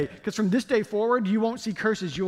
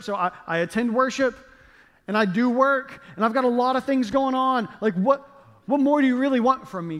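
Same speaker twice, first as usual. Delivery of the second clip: higher and louder, a put-upon whine; exasperated complaint; 3 semitones higher, 3 dB louder than usual. Pretend. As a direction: plead your case, feeling hard done by. Frustrated complaint to God.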